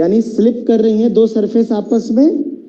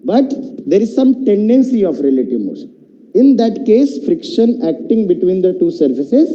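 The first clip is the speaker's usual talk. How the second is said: slow, measured teacher dictating a definition; drawn-out formal classroom definition; slow definition dictation; much slower than usual. Real, not acted. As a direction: spell out the definition slowly, phrase by phrase.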